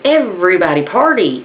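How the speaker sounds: lightly voiced party parrot; chirpy parrot. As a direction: chirp it out like a pet bird. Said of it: "that bird chirped up and said".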